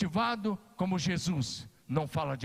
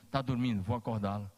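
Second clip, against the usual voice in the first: lower, gentle reassurance; tender words; 7 semitones lower than usual. Acted. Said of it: "ele usa um termo carinhoso". (Jesus fala da menina com carinho, em tom baixo)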